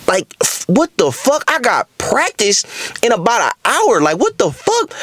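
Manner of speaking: high-pitched, incredulous complaint; retold exasperation. Fretting over the mess with practice an hour away, exasperated. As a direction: replay being totally fed up.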